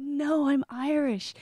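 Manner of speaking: insistent correction. Retold or imitated. Correcting people in Ireland again, slow and insistent. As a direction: set them straight, patiently firm.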